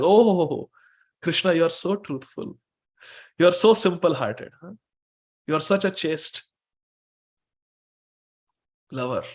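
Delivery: lightly acted sarcastic praise, falling away at the end. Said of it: "with a sarcastic word".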